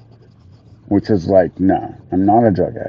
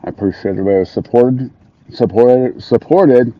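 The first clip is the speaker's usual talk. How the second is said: tongue tripping on new dentures; words catching in the mouth; stumbling over words; 4 semitones higher, 3 dB louder than usual. Real, not acted. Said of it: "fuck, I can't even talk".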